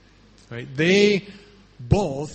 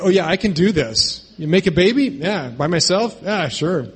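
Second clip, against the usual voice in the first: breezy, hammed-up self-assurance; mock confidence; 3 semitones higher, 4 dB louder than usual. Preacher voices what neither pregnant woman would say, mock confident. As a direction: play it absurdly sure of yourself, a bit loud.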